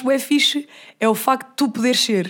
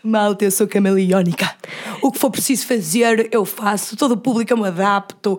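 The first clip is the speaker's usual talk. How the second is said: mock posh accent; 4 semitones lower than usual. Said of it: "do sotaque".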